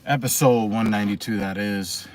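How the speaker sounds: breathless, winded talk; out of breath. Real, not acted. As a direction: talk while catching breath. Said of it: "Still trying to catch my breath".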